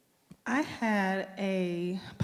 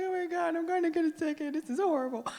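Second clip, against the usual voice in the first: retold panic; 10 semitones higher, faster than usual. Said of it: "I'm crying".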